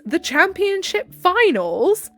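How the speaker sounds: high, loud mock outrage; incredulous. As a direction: exclaim in drawn-out disbelief.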